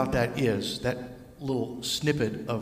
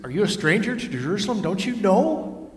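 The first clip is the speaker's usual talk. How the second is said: amazed disciples; 3 semitones higher than usual. Acted. Disciples astonished at the stranger.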